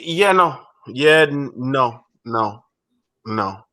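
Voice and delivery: lightly like a stubborn cartoon maid; Consuela. Real, not acted. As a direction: refuse in a dwindling, repetitive deadpan. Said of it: "Over here sound like Consuela from Family Guy".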